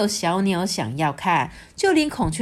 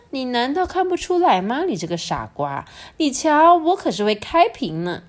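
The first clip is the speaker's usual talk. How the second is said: boastful peacock; 6 semitones higher than usual. A narrator's reading. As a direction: show off like a vain peacock. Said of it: "这孔雀就说". (骄傲的孔雀)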